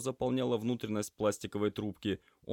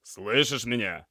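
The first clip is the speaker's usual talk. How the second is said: loud, slow and higher; slow, raised-voice check; loud question; 5 semitones higher, 7 dB louder, slower than usual. A narrator's reading. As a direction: get through to a dazed patient. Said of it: "громко спросил Алексей".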